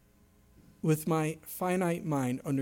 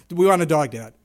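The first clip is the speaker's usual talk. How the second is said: loud nagging demand; whining kids; 10 dB louder than usual. Retold or imitated. Children pestering their dad for a dog, loud whine. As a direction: nag like a persistent child.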